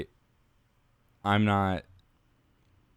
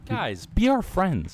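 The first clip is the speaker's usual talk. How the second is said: slow, high begging; pleading; 11 semitones higher, slower than usual. Acted. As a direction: beg them, drawn out and high. Begging listeners.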